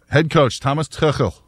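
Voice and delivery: Tuchel said the German way, with a throaty ch; German pronunciation. Shown as a demonstration. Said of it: "is how I'm gonna say it with my, uh, German background".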